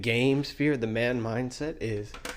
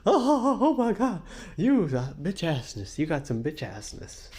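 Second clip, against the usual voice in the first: mocking hyena voice; 5 semitones higher than usual. Mocking the streamers as squealing hyenas. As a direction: shriek it like a babbling hyena.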